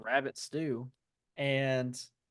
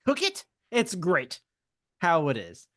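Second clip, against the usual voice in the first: Gollum voice; 3 semitones higher than usual. Retold or imitated. Gollum scolding Sam about cooking rabbit. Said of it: "He's like".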